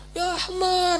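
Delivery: high-pitched insult hurled at someone; mock quarrel. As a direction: imitate a squabbling passenger. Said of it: "pasti ada yang bertengkar".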